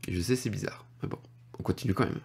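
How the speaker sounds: unvoiced whispered aside to viewers. Real, not acted. Whispering an aside to viewers about the bizarre spelling. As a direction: whisper it like a confession.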